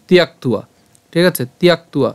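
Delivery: তিয়াক্তুয়া with the ending as "tu-wa"; W-glide demo. Shown as a demonstration. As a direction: say তিয়াক্তুয়া as tiyak-tu-wa. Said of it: "উয়োর মতো হবে". (তিয়াক্তুয়া, শেষে উয়া উচ্চারণ)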